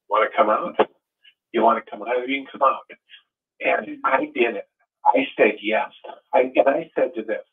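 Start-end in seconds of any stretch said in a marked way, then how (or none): 0.1-2.9 gentle invitation. Retold or imitated. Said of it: "And says".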